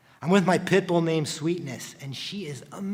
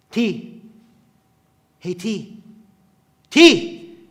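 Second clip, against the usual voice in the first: calling to wake; 3 semitones higher, 9 dB louder, much slower than usual. Acted. Waking his fading brother, building to a shout.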